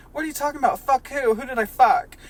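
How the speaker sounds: confused SpongeBob. Acted. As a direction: squeak out the confusion like a cartoon sponge. SpongeBob voiced.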